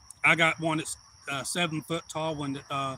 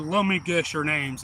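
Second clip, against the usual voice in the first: Santa voice; 4 dB louder than usual. Retold or imitated. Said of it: "changed my voice".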